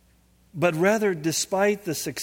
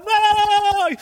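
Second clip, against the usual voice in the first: a huge, much higher and louder shout of no; booming ghostly no; 11 dB louder than usual. Retold or imitated. Dead wife's voice from the spinning picture, booming shout. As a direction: roar it like a voice out of a tornado. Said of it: "this voice is going".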